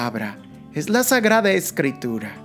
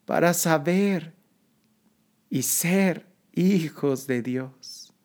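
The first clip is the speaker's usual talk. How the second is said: earnest, rising litany prayer; prayerful invocation; 2 semitones higher than usual. Acted. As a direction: plead gently, building with each call.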